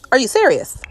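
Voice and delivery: are you serious with serious falling, fed-up and flat; repeated in weary disbelief; exasperated. Real, not acted. Gamer repeating herself to the sims, weary and fed up. Sims keep picking babies up.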